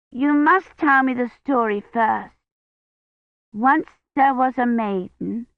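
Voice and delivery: put-on high eager little girl; a small child begging for a story; child's voice. A narrator's reading. Child Agnes demands story.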